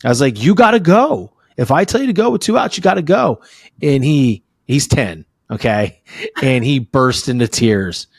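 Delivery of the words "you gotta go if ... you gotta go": raised voice. Retold or imitated. Coach dad raising his voice at his son on third base. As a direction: snap it at him like an angry coach. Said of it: "And I raised my voice".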